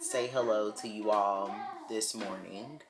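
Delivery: normal talking voice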